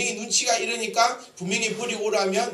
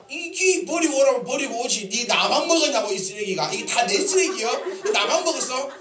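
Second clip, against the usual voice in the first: mock nagging wife; 5 semitones higher, 3 dB louder than usual. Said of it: "이러지 말고".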